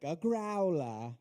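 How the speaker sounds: put-on slow, drawn-out British accent; exaggerated British pronunciation. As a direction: imitate a British lady, stretching the word. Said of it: "imagine it in that accent".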